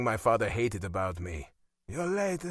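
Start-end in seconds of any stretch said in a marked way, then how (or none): 1.9-2.5 higher-pitched grumbled reproach; grunted reproach. A narrator's reading. Father to the son who just sat down, grunted reproach. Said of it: "he grunted".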